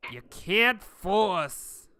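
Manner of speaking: slow sneering whisper of a sweating dwarf; defiant dwarf leader. Acted. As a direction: hiss it out slowly in contempt. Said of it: "looking at you and says".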